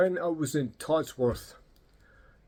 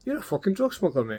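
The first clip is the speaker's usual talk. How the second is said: higher-pitched mock accusation; retold incredulous accusation; 6 semitones higher than usual. Customer to boastful barber, retold in high-pitched disbelief. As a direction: call him out in comic disbelief, pitch up. Acts out his reaction to barber.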